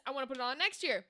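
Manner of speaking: whispered aside, voiceless. Real, not acted. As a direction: breathe the line as a private wish. Repeat of own line, whispered.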